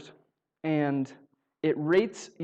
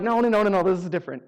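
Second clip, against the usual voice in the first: insistent protest; 4 semitones higher, 6 dB louder than usual. Retold or imitated. Kid protesting to counselor.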